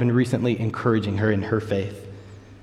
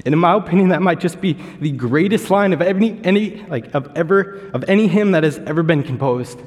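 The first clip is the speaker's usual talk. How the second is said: excited emphasis; 5 semitones higher than usual. Real, not acted. Preacher to congregation, praising the line, fervent and raised. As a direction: raise the pitch and press the point home.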